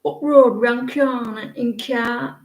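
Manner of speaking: short phrases in a mock Yorkshire accent. Shown as a demonstration. Showing viewers how Yorkshire talks, Yorkshire accent. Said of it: "You don't like Yorkshire?".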